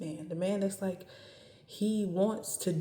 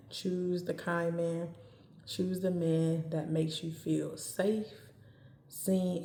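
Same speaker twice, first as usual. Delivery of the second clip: warm; slower than usual. Real, not acted. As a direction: say it slowly and tenderly. Tender advice to women.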